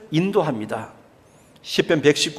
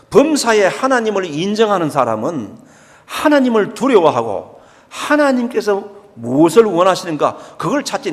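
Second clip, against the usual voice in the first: ordinary talk, nothing marked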